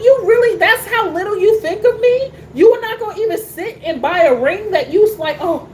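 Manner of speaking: imitating Willow scolding her husband; indignant wife. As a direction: hurl it at him like a betrayed wife. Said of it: "I look at him like".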